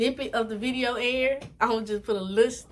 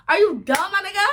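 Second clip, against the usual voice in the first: put-on loud New York accent, higher; 9 semitones higher, 7 dB louder than usual. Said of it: "My New York accent came out".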